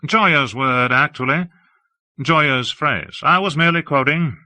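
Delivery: a lofty, admiring high voice; Hawke, airy and effusive. Acted. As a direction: gush about the city grandly.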